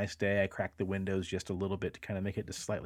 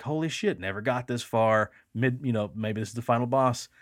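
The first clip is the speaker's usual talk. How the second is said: excited; 3 dB louder than usual. Retold or imitated. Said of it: "like, excited".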